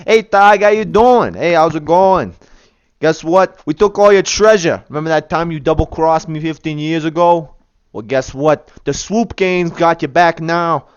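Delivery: a lightly voiced little bandit, gloating; taunting statue bandit. Statue bandit taunting Targ about his treasure, gloating. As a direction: crow over the stolen treasure, mocking.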